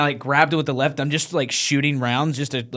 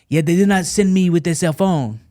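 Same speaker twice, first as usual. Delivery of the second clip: put-on higher-pitched French accent excuse; French accent impression; 5 semitones higher than usual. French reporter explaining the missing phone, French accent. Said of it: "I could do an impression".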